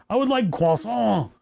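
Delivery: put-on a light French accent ordering at the counter; mock French order. Ordering at McDonald's in a lightly put-on French accent. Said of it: "correct French pronunciation".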